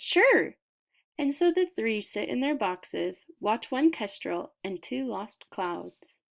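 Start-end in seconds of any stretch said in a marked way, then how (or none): 0.0-0.6 smiling sure. Acted. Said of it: "Etho smiles and says".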